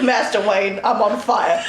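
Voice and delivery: expressionless mock butler; Alfred. Alfred tells Batman he's burning, expressionless. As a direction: report an emergency with no expression whatsoever. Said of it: "No expression".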